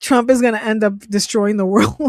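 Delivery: amused disbelief tipping into laughter; real laughing. Real, not acted. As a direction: say it loud, then burst out laughing. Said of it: "I'm sorry, I'm laughing".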